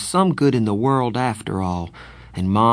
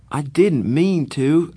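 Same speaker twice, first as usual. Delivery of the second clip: pleading; 7 semitones higher, 5 dB louder, slower than usual. Acted. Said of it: "I pleaded with Darry".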